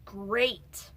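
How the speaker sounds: mock enthusiasm with a second, punched "great"; dry sarcasm, hammering the repeat; sarcastic. Real, not acted. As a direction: say it's great and mean the opposite. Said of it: "That was sarcasm".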